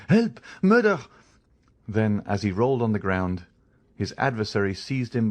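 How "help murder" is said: high, loud desperate shout; calling for help. Acted. Caderousse falling under the blows, shouting loud and high. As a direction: yell for help as he falls.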